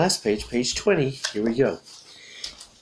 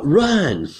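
high, loud yell; raised, acted yell; yelled command; 6 semitones higher, 6 dB louder than usual. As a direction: yell it as an urgent order. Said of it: "yells Kate".

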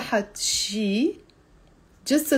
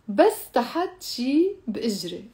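phrase joined up, moderately paced; teacher demo, linked without long pauses; a bit faster. Shown as a demonstration. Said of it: "I'm saying it faster".

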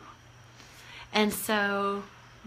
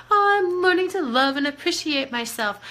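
higher and louder, springing like a bouncing ball; bouncy, playful; 4 semitones higher, 4 dB louder than usual. Shown as a demonstration. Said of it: "just like a bouncing ball, let's play it a different way".

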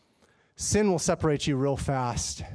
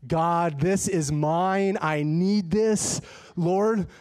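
put-on cling to it like a stubborn child; pleading with God; 3 semitones higher, much slower than usual. Arguing with God over the forty dollars, slow pleading. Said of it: "I start fighting with him".

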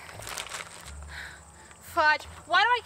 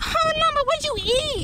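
pitying; 8 semitones higher, 3 dB louder than usual. Real, not acted. Pitying lost llama.

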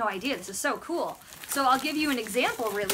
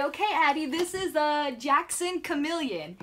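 put-on teaching a toddler; 2 semitones higher than usual. Shown as a demonstration. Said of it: "So I'd say".

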